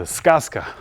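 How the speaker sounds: сказка said the Russian way, SKAZ-ka, stress on the first syllable; сказка in clear Russian; Russian word. Shown as a demonstration. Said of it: "a fairy tale in Russian".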